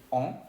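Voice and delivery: "on" as one nasal vowel, N not sounded; French nasal sound. Shown as a demonstration. Teacher introducing the sound, French nasal "on". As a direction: hum "on" through the nose, no final N. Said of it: "se va a decir".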